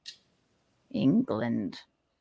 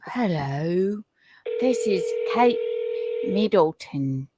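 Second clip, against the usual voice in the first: mock posh English; 4 dB quieter than usual. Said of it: "Well, she's not Cockney".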